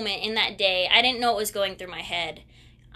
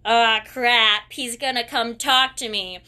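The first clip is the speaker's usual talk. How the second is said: a loud, sinking "ah, crap" of dread; dreading groan; 5 dB louder than usual. Retold or imitated. Retelling the tennis loss, dreading her friend's talk, loud groan. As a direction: let it fall out as a groan you can't hold in. Dreading coach's approach after losing.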